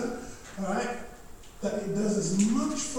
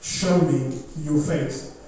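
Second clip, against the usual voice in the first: tender call; 3 semitones lower, 3 dB louder, slower than usual. Acted. Lord calling, slowed.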